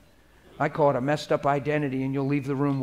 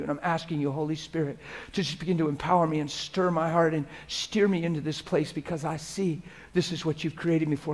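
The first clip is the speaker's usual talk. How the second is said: model prayer; 3 dB quieter than usual. Shown as a demonstration. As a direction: pray it quietly as if alone with God. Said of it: "And say".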